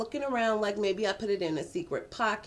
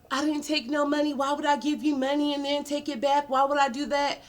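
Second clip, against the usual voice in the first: a higher, defensive man's voice, protesting; Edwin's denial; 6 semitones higher than usual. Retold or imitated. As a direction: play him as innocent and offended. Edwin denies taking the money.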